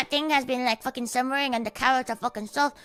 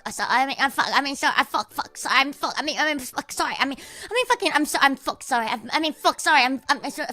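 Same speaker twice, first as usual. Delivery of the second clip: flustered sputtering; faster than usual. Pretend. Cannot stop swearing and apologising.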